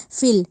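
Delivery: فل short, ya dropped into lam; joined fil. Shown as a demonstration. Teacher models joined short فل. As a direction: join فل without a long ee. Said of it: "اس سے ملانا ہے".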